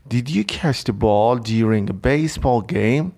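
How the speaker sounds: very slow, careful, rising at the end; slow teacher read-aloud; slow example read. Shown as a demonstration. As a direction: read the example slowly for learners. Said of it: "حالا ببینید گفته did you".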